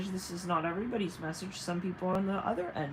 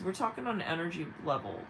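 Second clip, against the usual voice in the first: usual speaking voice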